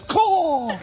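high cawing crow. Retold or imitated. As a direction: caw like a crow. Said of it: "Sister So-and-so says".

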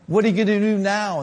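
quick, mildly mimicked shrill voice; Billy Brim imitation. Preacher imitating a familiar saying, lightly mimicked shrill voice. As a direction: rattle off the catchphrase, lightly mimicking. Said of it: "in that shrill voice".

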